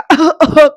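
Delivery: sudden loud choking cough; coughing fit. Retold or imitated. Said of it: "त्याला ठसका लागतो".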